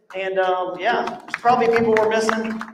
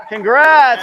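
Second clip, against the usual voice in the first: excited laugh; 10 semitones higher, 5 dB louder than usual. Real, not acted. Winner reached on the phone.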